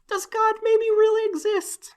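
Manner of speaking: very high-pitched, squeaky awe; mock wonderment. Podcaster acting out disbelief at sheer luck, squeaky wonder. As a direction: play someone dumbfounded by a small miracle. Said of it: "makes you be like".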